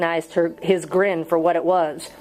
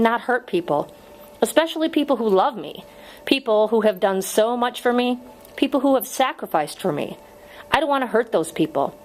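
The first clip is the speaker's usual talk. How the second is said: higher-pitched, measured pleading; earnest appeal; 4 semitones higher than usual. Acted. Teacher appealing to a condemned prisoner, earnest.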